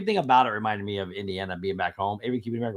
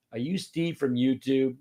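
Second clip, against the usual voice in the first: put-on stoic kid; 4 dB quieter than usual. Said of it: "with very stoic, not moving".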